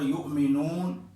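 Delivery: یؤمنون with the madd held two beats; short qasr. Shown as a demonstration. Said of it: "اس کو آپ قصر بھی کر سکتے ہیں".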